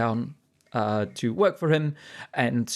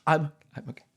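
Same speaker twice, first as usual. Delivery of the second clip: holding back a cry; 3 semitones higher than usual. Acted. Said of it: "trying to hold back, like, an ugly cry".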